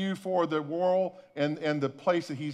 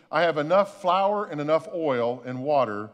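hopeless thought; 4 semitones lower than usual. Retold or imitated. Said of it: "this woman is thinking".

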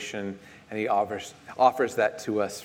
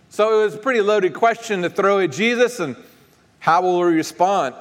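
high, raised preacher's voice; emphatic preaching; 10 semitones higher, 6 dB louder than usual. Real, not acted. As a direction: preach it to the congregation, pitched well up.

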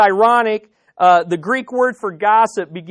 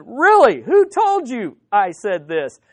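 raised, louder "Really?" then easing; incredulous reply; 5 dB louder, slower than usual. Retold or imitated. Pastor answering upset visitor's accusation, incredulous. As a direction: challenge the accuser with acted surprise.

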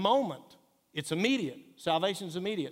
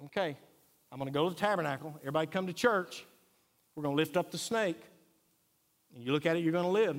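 imagined Moses; faster than usual. Retold or imitated. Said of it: "Moses could have said".

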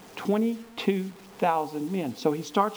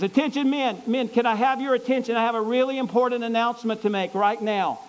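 high, loud commander's address; loud announcement; 5 semitones higher, 3 dB louder than usual. Acted. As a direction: call the whole army to attention. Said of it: "in a loud voice, he says".

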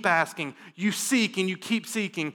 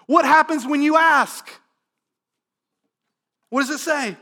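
loud, higher, urgent preaching; full-force preaching; 6 semitones higher, 5 dB louder than usual. Acted. Pastor urges his congregation to come to God, loud preaching. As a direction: drive it home to the room.

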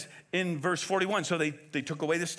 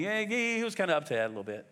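dismissive understatement; faster than usual. Acted. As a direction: toss it off as if it were no big deal. Mocking a softened translation.

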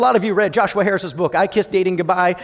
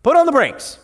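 mock warning. Women voiced urging her to wait.

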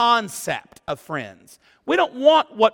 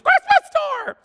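mock awe. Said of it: "Everybody was just".

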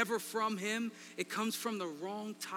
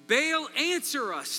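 slow, louder call to a god; shouted; 5 semitones higher, 7 dB louder, slower than usual. Retold or imitated. Worshipper calling on Baal, slow raised cry. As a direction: cry out the name, drawn out. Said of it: "they shouted".

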